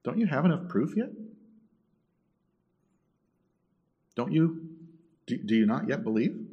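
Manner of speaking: earnest question, lifting softly at the end; quiet, gentle plea. Acted. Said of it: "Jesus quietly turns and says".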